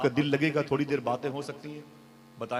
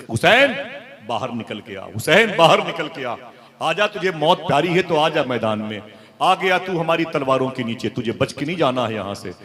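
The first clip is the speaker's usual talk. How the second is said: high, loud taunting shouts; shouting enemies; 5 semitones higher, 7 dB louder than usual. Retold or imitated. Yazidis shouting at Hussain's tent, loud jeering shout. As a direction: bellow the challenge at the door. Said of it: "चीखते थे".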